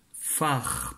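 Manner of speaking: first syllable said on its own; isolated syllable. Shown as a demonstration. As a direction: give the syllable neatly for spelling. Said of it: "première syllabe". (syllabe isolée, bien articulée)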